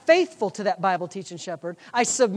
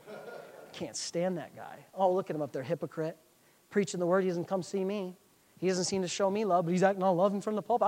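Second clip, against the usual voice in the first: resentful muttering; 2 semitones lower, 5 dB quieter than usual. Retold or imitated. Offended man in the pew judging his pastor, resentful muttering. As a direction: mutter a private grudge under your breath.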